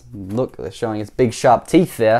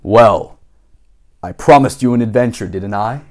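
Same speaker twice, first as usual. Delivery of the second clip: lower, steadier grown-up voice; Mister Daydream's voice; 3 semitones lower, 3 dB louder than usual. Shown as a demonstration. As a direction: settle back into the lower character voice. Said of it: "We gotta get back into his voice".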